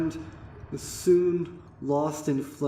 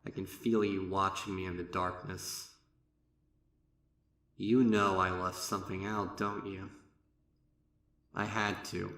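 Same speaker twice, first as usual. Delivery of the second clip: much softer, lower conspiratorial voice; secretive hush; 5 semitones lower, 6 dB quieter than usual. Acted. Narrator confiding to the unseen watcher, hushed. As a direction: confide it low in the dark.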